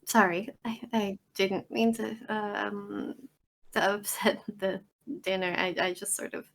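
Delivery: halting, flustered apology; hesitant, with false starts and ums; awkward apology. Acted. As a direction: stumble and pause through an apology. Character apologises for upsetting the dinner.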